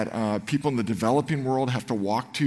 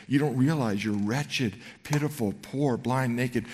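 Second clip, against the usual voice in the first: compassionate. Shown as a demonstration. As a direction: say it tenderly, like a caring diagnosis. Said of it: "I think it's that tone, the compassionate".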